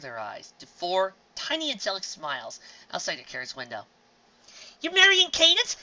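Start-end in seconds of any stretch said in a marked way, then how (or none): 4.8-5.8 excited disbelief. Acted.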